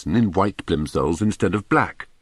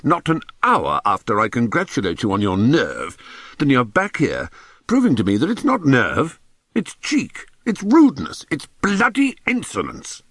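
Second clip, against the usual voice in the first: angry headmaster; 6 semitones higher than usual. Acted. Angry headmaster scolding boy.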